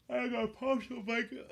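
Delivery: high cutesy mock voice; silly high voice. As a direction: play it like a cozy little kid. Silly voice about a blanket.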